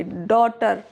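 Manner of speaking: "डॉटर" with no G or H before the T; silent GH. Shown as a demonstration. Teacher modelling the vowel plus GH rule, "डॉटर" without GH. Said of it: "नहीं पढ़ेंगे".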